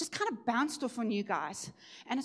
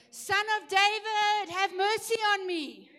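retold cry for mercy; 10 semitones higher, 3 dB louder than usual. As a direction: cry out to be heard. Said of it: "he's gonna shout even louder".

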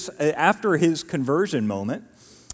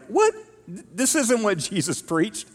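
high and slow, appalled; incredulous objection; 7 semitones higher than usual. Retold or imitated. Paul and Barnabas protest the circumcision demand, high slow and incredulous. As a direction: drag it out in disbelief. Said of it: "Paul and Barnabas are like".

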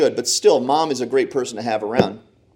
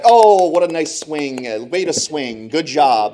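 sweet mom cheer; 3 semitones higher, 4 dB louder, slower than usual. Retold or imitated. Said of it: "she'd cheer for that".

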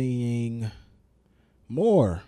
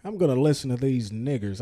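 light Southern US accent, barely put on. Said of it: "I don't know why I'm doing a Southern accent".

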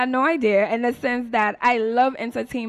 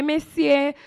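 Saint Lucian exclamation; 5 semitones higher, 4 dB louder than usual. Shown as a demonstration. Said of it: "I might say".

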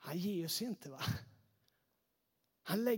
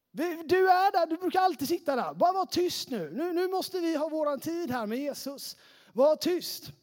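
raised-pitch stern scolding; 6 semitones higher than usual. Acted. Crowd to the blind beggar wanting their time with Jesus, stern hushing. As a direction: impatiently hush the man who always sits there. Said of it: "säger man till honom strängt".

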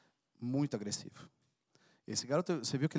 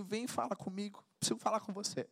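put-on much softer call, father inviting his child; quiet tender invitation to pray; gentle voice of God; 4 semitones higher, 7 dB quieter than usual. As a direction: speak softly as a loving father. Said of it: "o papai dizendo assim".

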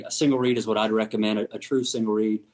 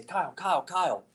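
close-range greeting; 6 semitones higher, 4 dB quieter than usual. Shown as a demonstration. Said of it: "just like me talking to Kyle right here".

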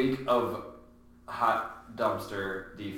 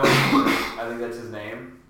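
coughing; 7 dB louder, much slower than usual. Real, not acted. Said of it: "You promised no coughs".

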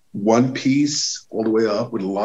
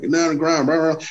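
imitating cop orders; 7 semitones higher, faster than usual. Cops shouting orders.

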